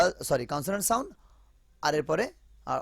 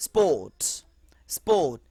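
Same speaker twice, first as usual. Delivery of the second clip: whisper; 3 dB louder than usual. Shown as a demonstration. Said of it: "demo words".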